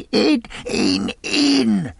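high, urgent repeated command; furious impatient yelling; eager, raging shout. A narrator's reading. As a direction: drive the men inside with your voice. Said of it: "he shouted".

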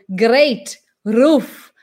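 GREAT and ROOF with hard R; strong uncurled R in GREAT and ROOF; Eastern European R. Retold or imitated. Teacher recaps Eastern Europeans' version, hard R. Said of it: "eles falam".

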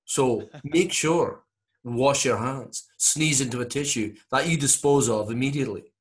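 put-on Scottish-accented health advice; soothing Scottish doctor giving careful instructions; Norman Swan. Comedian as radio doctor advising on hygiene, Scottish accent. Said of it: "you're listening to this going".

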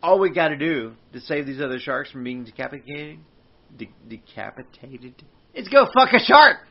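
loud, rising heroic declaration; mock proclamation. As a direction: proclaim it like a hero.

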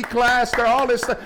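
high mocking parent voice, very high; mocking proud parent.

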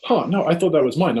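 mock a puzzled woman protesting; lady insisting.

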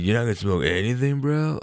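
mock girl voice, rising high; high incredulous question. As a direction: ask it high and disbelieving. Friend quoted asking, voiced.

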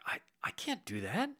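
imitated in an awed, hushed whisper; whispered refusal. Humble homeowner turning down the roof help, whispered. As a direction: breathe it out, overwhelmed and shy.

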